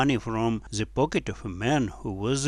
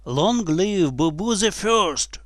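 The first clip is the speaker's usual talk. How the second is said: slow, raised, loud chant; crowd shouting; 6 semitones higher, 3 dB louder than usual. A narrator's reading. Whole crowd hails the boy, slow high shout. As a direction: shout it out slowly like a mock cheer. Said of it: "the whole crowd was shouting".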